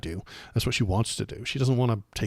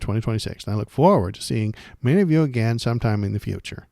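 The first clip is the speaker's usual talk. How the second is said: louder white lady voice with swooping pitch; 5 dB louder than usual. Acted. Reads a resigning lawmaker's statement in a white lady voice. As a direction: read it loudly in a swooping, sing-song white lady voice. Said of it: "It's my white lady voice".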